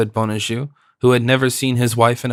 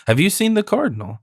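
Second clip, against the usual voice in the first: alarmed cry; 8 semitones higher than usual. Acted. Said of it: "cried Madame Bonajoux".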